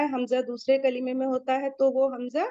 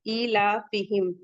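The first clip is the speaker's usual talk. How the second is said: Quran recitation; 2 semitones lower, slower than usual. Shown as a demonstration. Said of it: "टू count".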